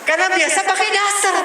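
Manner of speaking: suara istri tinggi dan menyindir; istri yang menyindir. Retold or imitated. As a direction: tirukan istri yang heran dengan nada tinggi. (istri heran melihat suami, nada tinggi menyindir)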